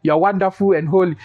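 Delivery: mock pious prayer. Preacher mimicking boys praying stiffly, mock solemn. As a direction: ham up a stiff formal prayer. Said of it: "coming to me".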